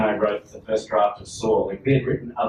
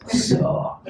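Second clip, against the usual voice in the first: American trailer voice. Shown as a demonstration. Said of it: "in American trailer voice".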